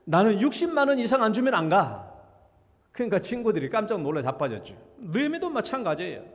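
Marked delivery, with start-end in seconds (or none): 0.0-2.1 firm, louder self-assured declaration; 자신만만하게 단언하듯; confident. Retold or imitated. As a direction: stake the claim with total confidence. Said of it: "자신 있게 말했어요".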